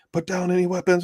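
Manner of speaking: high, barked command to drop weapons; mock police shout. Cops banging on the door, mock shouted order. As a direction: yell it like a cop at the door. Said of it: "Like, they're screaming".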